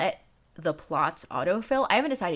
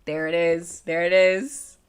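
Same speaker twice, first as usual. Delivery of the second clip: louder, delighted; 6 dB louder, slower than usual. Real, not acted. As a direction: cheer as it arrives. Alert finally appears.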